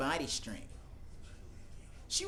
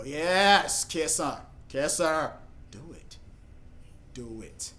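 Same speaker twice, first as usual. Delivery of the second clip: louder urging at the screen; urging excitedly; 3 dB louder, much slower than usual. Real, not acted. Cheering the couple on screen, excited urging. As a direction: egg them on to kiss.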